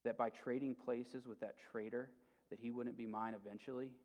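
softly voiced menace, only half whispered; mock whisper. Witch to lion before the dagger, lightly imitated whisper. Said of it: "she whispers something to him".

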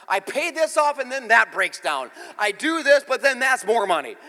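high, loud, slow pleading to God; crying out to Jesus; impassioned prayer. Retold or imitated. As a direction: passionate prayer. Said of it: "I'm like".

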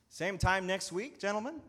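chiding. Acted. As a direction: needle them with a mocking question. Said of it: "the steward chided".

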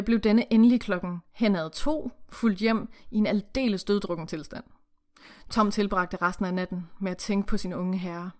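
steady read-aloud narration with character lines; story reading. Acted. Reading the novel to the co-host, read-aloud narration.

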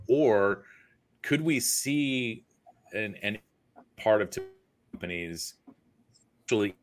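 choppy connection dropping out; breaking up. Real, not acted. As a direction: audio cutting in and out. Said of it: "You're breaking up again".

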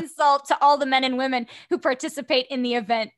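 lightly voiced mean girl, laughing through it; mean girl line. Quoting her favorite mean-girl line to the host, laughing. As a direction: deliver the insult with a laugh. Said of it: "favorite lines I've ever delivered".

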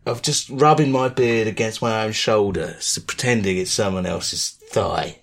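low, softened mock-sensual murmur; creepy sex talk. Host describing his fantasy to supporters, mock creepy. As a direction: confide it like a joke pervert, voice dropping. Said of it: "This is the creepyometer raising".

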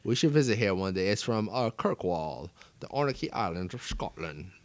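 a bad, lightly put-on Scottish accent; reading the label like a mock Scotsman, Scottish accent; Sean Connery Scottish accent. Host reading the whisky bottle to viewers, in a bad Scottish accent. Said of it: "Worst accent ever".

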